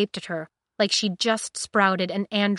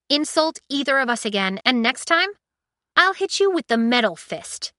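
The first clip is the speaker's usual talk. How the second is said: raised threatening voice; 6 semitones higher, 5 dB louder than usual. Acted. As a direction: warn him hard, louder. Threat to Jason.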